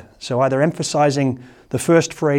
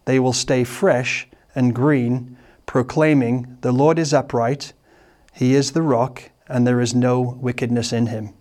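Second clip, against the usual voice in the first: scripture reading. Shown as a demonstration. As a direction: read the psalm aloud to the congregation, unhurried. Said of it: "I'll try and maybe emphasize it in my voice".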